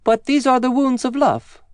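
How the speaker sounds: put-on high, childlike storybook voice; child reassuring the angry giant; child's voice. A narrator's reading. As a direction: speak high as the holy child. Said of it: "answered the child".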